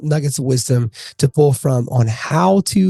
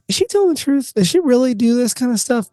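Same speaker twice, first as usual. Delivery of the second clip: mock doubt; 9 semitones higher than usual. Mock doubting question about guest.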